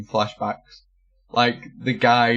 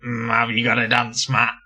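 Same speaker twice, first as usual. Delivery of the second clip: a hint of a buzzy electrolarynx voice, laughing through it; electrolarynx imitation. Imitating the customer with the electrolarynx asking for a dance mat. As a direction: press on the throat and drone it like a robot, half laughing. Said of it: "pushing on their throat and going".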